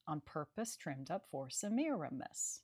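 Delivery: slow iambic reading, beats on the even syllables, ending se-MI-ra-MIS; scanning the verse line. Shown as a demonstration. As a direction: read the line slowly and mark each beat. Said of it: "emphases fall on the second and fourth syllables".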